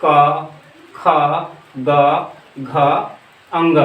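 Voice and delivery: क, ख, ग, घ, अंग each said slowly from the throat; throat sounds demo. Shown as a demonstration. Teacher sounds out क ख ग घ अंग for students, spaced throat demo. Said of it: "बोल के देखते हैं".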